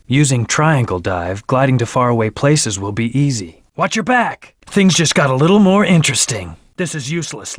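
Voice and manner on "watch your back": higher-pitched quick warning call; urgent warning. Acted. Game hero warns a teammate to watch out, urgent warning.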